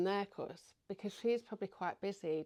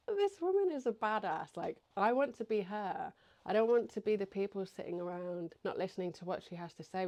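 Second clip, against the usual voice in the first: impressed exclamation; 3 dB louder than usual. Retold or imitated. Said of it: "And they'd be like".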